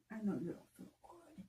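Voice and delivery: soft and tender. Real, not acted. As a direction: gently comfort a sick pet. Comforting cat.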